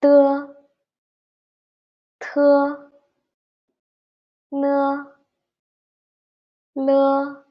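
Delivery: de, te, ne, le each said high and clear with pauses; pinyin de te ne le. Shown as a demonstration. Teacher drills the second row for the class, high and clear. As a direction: drill de te ne le slowly for repetition. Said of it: "the second line".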